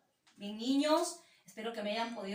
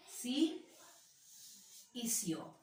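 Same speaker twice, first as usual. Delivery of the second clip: si and o said slow and soft; soft syllables; 7 dB quieter, much slower than usual. Shown as a demonstration. Teacher showing pupils the soft syllables. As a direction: drop the unstressed syllables softly. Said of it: "sílabas átonas son aquellas que tienen menor intensidad".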